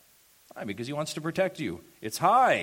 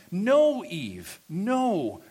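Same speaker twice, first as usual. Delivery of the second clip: emphatic no; 5 semitones higher, 4 dB louder, much slower than usual. Real, not acted. Preacher rebukes Eve for changing God's word, emphatic.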